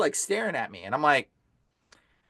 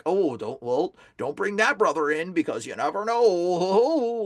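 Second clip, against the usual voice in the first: lightly voiced low, hesitant churchgoer, drawn out at the end; mildly mock a cautious churchgoer, trailing long; timid church people; 3 semitones lower, slower than usual. Exorcist mimics church people afraid of him, mock-worried.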